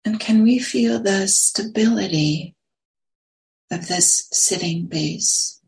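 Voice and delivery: unhurried meditation guidance, long silences between phrases; guided meditation. Real, not acted. Teacher settling a group into sitting posture, guided meditation. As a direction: guide them gently into the sit, phrase by phrase.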